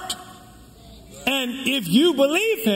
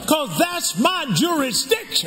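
preaching shout; 3 semitones higher than usual. Real, not acted. Preacher building to a climax.

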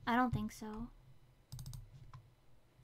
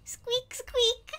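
rat mode; 8 semitones higher, 9 dB louder, much slower than usual. Retold or imitated. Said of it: "I'm like".

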